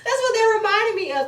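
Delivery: laughing high and loud through the words; breaking into laughter mid-sentence. Real, not acted. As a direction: still cracking up from the bit. Cracking up after her impression.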